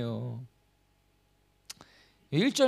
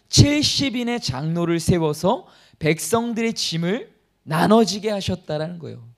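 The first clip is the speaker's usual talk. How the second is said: preaching; 4 dB louder than usual. Acted. Preaching God's grace.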